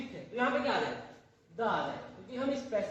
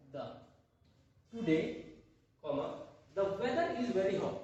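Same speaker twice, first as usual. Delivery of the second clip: slow dictation; 3 semitones lower, much slower than usual. Shown as a demonstration. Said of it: "तो यहाँ पे क्या आ जाएगा?".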